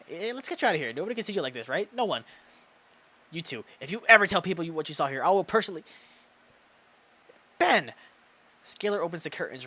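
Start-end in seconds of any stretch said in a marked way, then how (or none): 0.1-5.8 hissed threat. Acted. Mia threatening the witnesses. 7.6-7.9 sharp shout of a name; loud call. Acted. Mia calling out to Ben, sharp shout.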